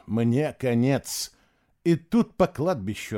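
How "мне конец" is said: slow, resigned; doomed. Acted. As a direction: say it slowly, giving up. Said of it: "обречённо подумал он". (обречённо, медленно)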